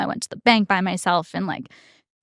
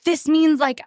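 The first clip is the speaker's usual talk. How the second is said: mildly distressed, pitched up at first; retold fearful fretting; 5 semitones higher than usual. New cardholder retelling her panic over credit, mock fretful. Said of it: "I was afraid of it".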